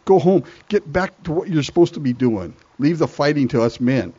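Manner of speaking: put-on bossy older brother. Older brother sending David home, bossy and scolding. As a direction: shoo the kid home. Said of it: "The older brother says".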